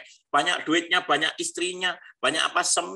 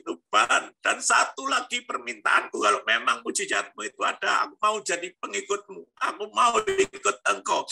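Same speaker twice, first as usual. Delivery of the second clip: impassioned plea; 5 semitones higher than usual. Retold or imitated. Re-enacting his tearful plea to God.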